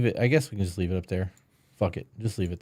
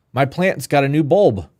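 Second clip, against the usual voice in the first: louder, higher, hammed-up eager questions; eager curiosity; 6 semitones higher, 7 dB louder than usual. Partner playfully asking about a plant, mock eager. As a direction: gush like you can't wait to hear more.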